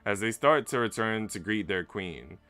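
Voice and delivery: dramatic storytelling read over the music; story narration. A narrator's reading. Streamer reads the game's story aloud to chat, storytelling voice. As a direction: read it like a novel's climax.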